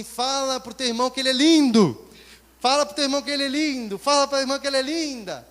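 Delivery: loud, high, pushy worship-leader chant; preacher's loud urging. Retold or imitated. Minister shouting at the congregation to praise each other. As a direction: belt it out like a worship leader hyping the crowd.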